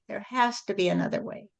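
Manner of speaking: the second time, just under the breath. Retold or imitated. Person finally admitting there must be another way, softly. Plea repeated softer.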